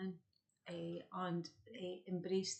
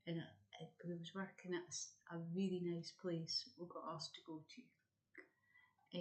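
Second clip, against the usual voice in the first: slow, careful wording with hesitations; deliberately slow; 5 dB quieter than usual. Real, not acted. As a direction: pick through the words slowly and carefully. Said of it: "I'll say this slowly".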